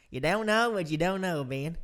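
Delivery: Chris Rude. Retold or imitated. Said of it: "He's from South Louisiana".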